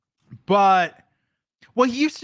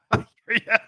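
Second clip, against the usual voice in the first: odd voiced line; 5 semitones higher, faster than usual. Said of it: "why did I say that like a part of the trim".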